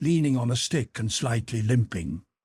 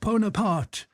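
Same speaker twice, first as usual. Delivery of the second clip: shouted; 9 semitones higher than usual. A narrator's reading. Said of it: "shouted Makar Alexeyevich".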